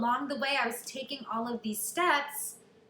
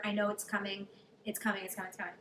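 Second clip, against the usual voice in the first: softer, fading mantra to herself; self-reassurance; 3 semitones lower, 6 dB quieter, faster than usual. Retold or imitated. To herself in January, quiet repeated reassurance. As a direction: repeat it like a calming chant. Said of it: "I had that moment of like".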